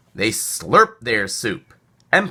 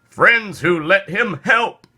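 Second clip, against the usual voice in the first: loud, slow, higher bitter yelp; 8 semitones higher, 4 dB louder than usual. Acted. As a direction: yelp it out slowly. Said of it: "yelped the squirrel".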